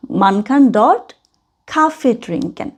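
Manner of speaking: very slow, each word apart; chopped phrasing. Shown as a demonstration. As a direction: break man kann dort lesen into separate slow pieces. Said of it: "ছাড়া ছাড়া এইভাবে করে বলবো". (ছাড়া ছাড়া ধীরে বলা)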